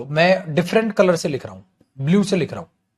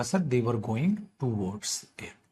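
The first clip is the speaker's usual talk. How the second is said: mock student answer; 5 semitones lower, 9 dB quieter, much slower than usual. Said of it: "तो आपने बोला".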